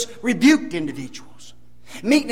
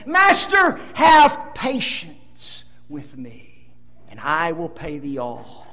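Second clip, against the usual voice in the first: a hint of a begging debtor; pleading servant; 5 semitones lower, slower than usual. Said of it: "fell down and began to worship his Lord and said".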